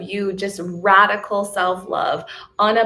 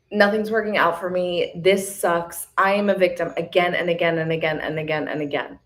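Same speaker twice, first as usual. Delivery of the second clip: a light mock of a self-pitying victim, the last line rushed; half-hearted poor-me complaint, speeding up at the end; whiny victim voice; 2 semitones lower than usual. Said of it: "That mentality".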